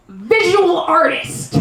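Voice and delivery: slow proud declaration; proud announcement. Acted. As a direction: announce it with mock pride. Proud punchline answer.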